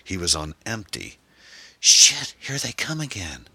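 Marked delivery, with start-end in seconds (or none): 1.8-3.5 high-pitched cry of alarm, loud first word. A narrator's reading. Passenger spotting the pursuers behind, crying out in alarm. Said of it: "Erin cried".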